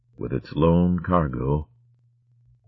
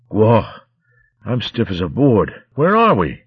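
put-on high, lively young shrew; 5 semitones higher, 4 dB louder than usual. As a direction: stiff and waking, chirpy. Flog wakes up.

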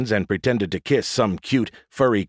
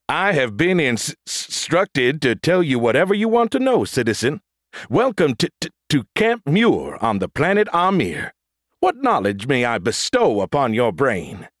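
robot voice; 6 semitones higher than usual. A narrator's reading. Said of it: "You sound a little like Optimus Prime".

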